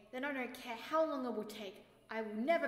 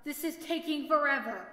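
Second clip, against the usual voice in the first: fed up; 4 dB louder than usual. Acted. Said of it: "in boredom".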